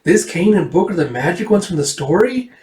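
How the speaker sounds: a hint of a girl's voice; slightly lifted, questioning child; lightly voiced young girl asking. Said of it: "that's her going".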